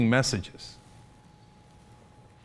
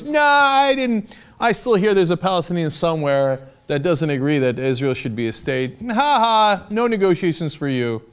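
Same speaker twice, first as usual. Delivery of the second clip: mock smug refusal; 3 semitones higher than usual. Mock voice of Israel refusing talks.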